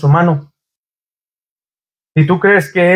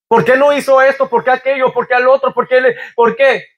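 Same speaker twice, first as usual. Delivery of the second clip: 1 pleading why; 6 semitones higher than usual. Acted. Voicing the hurting believer's questions.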